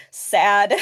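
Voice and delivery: deadpan little droid, lightly imitated; a low, mildly sarcastic one-word verdict. Podcaster imitating the little droid's reply, mildly sarcastic. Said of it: "it sounded so sarcastic".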